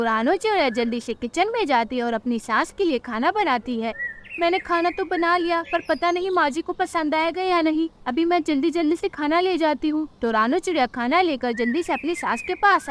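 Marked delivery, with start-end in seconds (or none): 4.4-10.1 higher-pitched, mildly worried bird wife; anxious daughter-in-law. Acted. Rano wonders if mother-in-law will like it, mildly anxious. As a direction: fret lightly in a higher voice.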